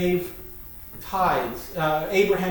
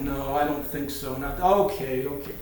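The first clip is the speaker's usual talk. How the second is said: lower-pitched grudging refusal giving way; mock reluctance; 4 semitones lower, 3 dB quieter than usual. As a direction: give in grudgingly, play-acting. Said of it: "God is very reluctant".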